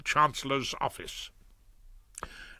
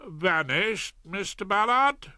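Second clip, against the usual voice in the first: incredulous judge; 7 semitones higher than usual. Acted. Judge disbelieving.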